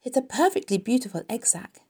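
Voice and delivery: delighted, high praise; happy. A narrator's reading. Wilbur praises Charlotte's egg sack, happily. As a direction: admire it with glowing delight. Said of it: "feeling as happy as though".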